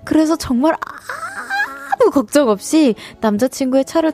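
measured radio story reading; story narration. Acted. Radio host reads a listener's letter, story narration.

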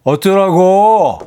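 slow, loud menacing 어쩌라고. Acted. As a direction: drag out 어쩌라고 like a threat. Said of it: "어, 무서워".

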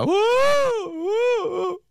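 high-pitched exaggerated wail; mock drunken sobbing. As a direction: wail like a tipsy coworker, hammed up. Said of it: "여직원 한 세 분은 웁니다". (과장되게 엉엉 우는 흉내)

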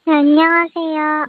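digitally altered interview voice; disguised deep voice. Real, not acted. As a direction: voice changer lowering the voice. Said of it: "음성 변조로 한다는 점".

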